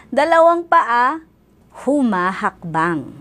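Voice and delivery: measured, sing-song phrases with pauses; children's poem recitation. Acted. Teacher sharing a body-parts poem with pupils, poem recitation. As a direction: recite each line clearly for little ones.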